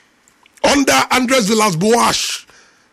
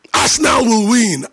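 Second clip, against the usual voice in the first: usual speaking voice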